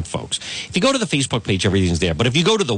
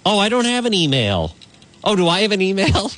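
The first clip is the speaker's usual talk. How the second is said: sarcastic; 6 semitones higher than usual. Acted. Mock confusion.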